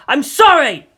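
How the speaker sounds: high, loud anguished cry; desperate shout. A narrator's reading. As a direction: shout the apology in despair. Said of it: "he shouted now".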